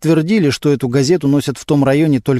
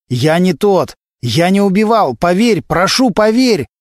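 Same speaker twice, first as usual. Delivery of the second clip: high, desperate plea climbing to the end; agitated pleading; 6 semitones higher than usual. A narrator's reading. Prisoner being led away begs investigator, desperate. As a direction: beg to be believed, voice rising. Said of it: "не успокаивался Глущенко".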